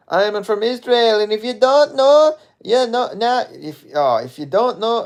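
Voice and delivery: high, slow put-on Israeli accent. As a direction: mimic an Israeli model with a thick Israeli accent. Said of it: "that's my Israeli accent".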